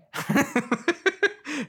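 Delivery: a burst of high-pitched laughter; squeaky giggle breaking out. Real, not acted. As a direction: cackle at your own joke. Laughs at own joke.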